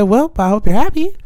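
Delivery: retold well-wish with a sarcastic edge. Replying to the new father, sarcastic. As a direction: wish them well and sound insincere. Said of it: "you were being sarcastic".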